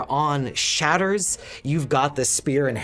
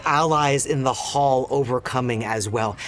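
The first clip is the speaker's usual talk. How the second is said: epic narration. A narrator's reading. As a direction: narrate the victory, winding down. GM narrates the victory.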